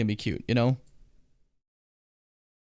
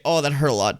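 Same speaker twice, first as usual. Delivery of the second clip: ordinary talk, nothing marked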